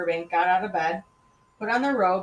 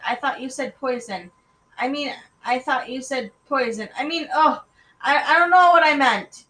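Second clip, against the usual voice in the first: higher voice, building to loud exasperation; flustered child; 6 semitones higher, 7 dB louder than usual. Acted. Boy who misheard his sister, increasingly flustered. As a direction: get tangled up, then give up loudly.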